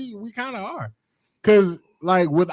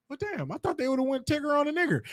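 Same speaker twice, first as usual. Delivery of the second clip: calmly; 7 semitones higher, 6 dB quieter than usual. Retold or imitated. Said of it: "I heard you calmly".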